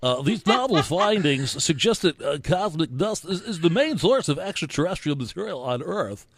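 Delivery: nerd voice. Acted. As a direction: lecture it like a nerdy know-it-all. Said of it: "Can I do a nerd voice?".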